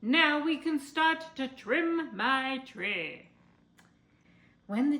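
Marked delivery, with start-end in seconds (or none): 0.0-3.3 eager delight. A narrator's reading. Willoughby continues gleefully.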